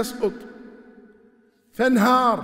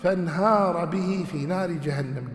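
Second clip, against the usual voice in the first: Quran recitation; much slower than usual. Acted. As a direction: recite the verse with measured tajweed. Verse recited slowly.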